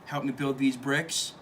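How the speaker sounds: lightly voiced laid-back dude; a hint of a mellow dude; chilled-out dude. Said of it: "like, chilled out dude".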